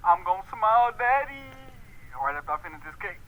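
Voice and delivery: low, lazy dubbed voice for the animal; deep dubbed pet voice. Acted. Dubs a pet's voice.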